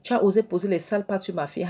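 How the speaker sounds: high, indignant accusation; retold accusation. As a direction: confront him for touching your daughter. Mother accuses Hans.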